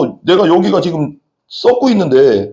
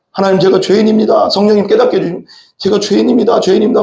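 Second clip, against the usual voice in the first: a touch of tearful pleading, a little raised; mock wailing prayer; 4 semitones higher than usual. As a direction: imitate a sinner lamenting before God, lightly. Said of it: "하면서 눈물로 통곡하는 거예요". (살짝 흉내 낸 통곡하는 기도)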